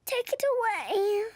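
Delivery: slow, stretched-out frightened whine; scared pleading. Acted. Child begs Daddy to remove the spider, scared. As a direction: plead to be rescued, dragging the words.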